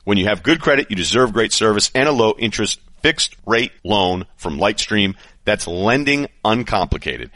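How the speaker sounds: upbeat host-read ad. Acted. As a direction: sell it like a sponsor spot. Host reads sponsor ad.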